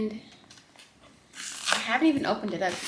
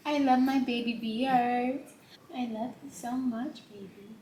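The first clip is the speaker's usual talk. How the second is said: sweet nothings; 4 dB quieter than usual. Real, not acted. Tender words to baby.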